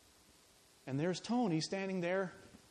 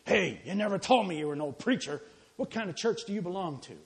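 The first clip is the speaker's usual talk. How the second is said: a touch of gruff suspicion, a bit louder; trace of hostility; 6 dB louder than usual. Acted. Cook confronting the praying sociologist with mild hostility. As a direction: challenge him, half hostile. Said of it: "with a trace of hostility in his voice".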